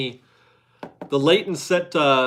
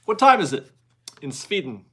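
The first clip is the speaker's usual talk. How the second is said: mock Swedish accent. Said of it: "kind of German accent there".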